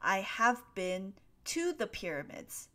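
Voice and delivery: "to" picked out as the correction; careful example with weight on "to"; model sentence. Shown as a demonstration. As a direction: lean on "to" in place of "in". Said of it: "proper way to say that is".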